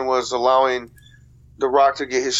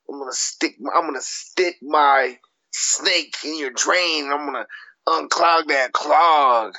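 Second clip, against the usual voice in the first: plumber trash talk, lightly voiced; slow, drawn-out wrestling promo. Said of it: "cut a promo as a plumber".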